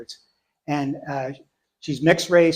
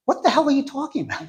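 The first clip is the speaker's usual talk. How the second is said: baffled laugh; 10 semitones higher, faster than usual. Retold or imitated.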